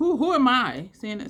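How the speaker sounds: very loud, high, exasperated shouting. Talking to viewers while testing makeup colors, yelling. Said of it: "Excuse me for yelling".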